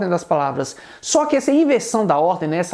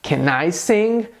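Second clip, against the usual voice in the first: slow, careful question "Can I sing"; question intonation; 3 semitones lower, much slower than usual. Shown as a demonstration. Teacher shows the sentence turned question, asked slowly. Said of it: "eu também vou mudar a entonação".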